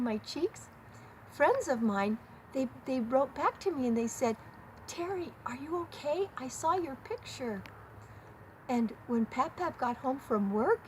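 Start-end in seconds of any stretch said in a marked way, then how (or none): 4.9-7.6 worried friends' check-in, pitched up at first; lightly acted, caring concern; imitating concern. Friends writing back about her tearful picture, voiced with concern. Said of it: "expressing their love for me and their concern".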